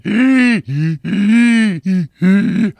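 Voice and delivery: replays his own hacking laugh from the clip; a mock fit of hacking laughter; imitated hacking laugh. Vaper mimicking himself on the webcam clip, mock hacking laugh. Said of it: "I could clearly hear myself going".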